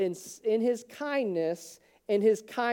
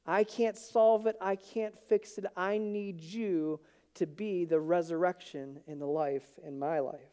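hushed sincere plea; quiet surrender prayer; 2 semitones lower, 5 dB quieter than usual. Retold or imitated. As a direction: hand it over to God gently. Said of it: "turn over to him and say".

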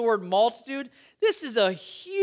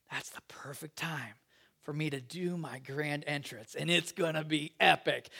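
whispered, much softer and lower, secretive; playful God whispering his scheme; conspiratorial whisper; 6 semitones lower, 8 dB quieter than usual. Pretend. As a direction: lean in and whisper the big plan like a secret. God voiced planning grand entrance.

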